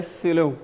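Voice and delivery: स्लो said as "से-लो"; syllable shown. Shown as a demonstration. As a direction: split स्लो into two syllables, "से-लो". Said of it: "एक syllable use हो रहा है". (स्लो को "से-लो" बोलकर)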